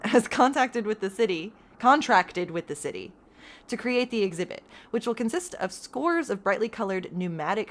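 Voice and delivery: reading a headline story like an anchor; news read. Acted. Streamer reads the in-game newspaper, anchor style.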